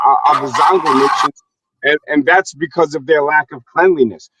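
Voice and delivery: put-on West African accent. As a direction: speak in a Nigerian-sounding West African accent. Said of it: "How was my West African accent?".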